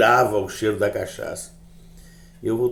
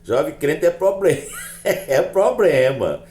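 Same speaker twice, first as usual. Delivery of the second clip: chuckling, drawn-out words; real laugh breaking in; amused chuckle; 5 semitones higher, 3 dB louder, slower than usual. Real, not acted. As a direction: laugh into the slow phrase. Jokes about the young believer.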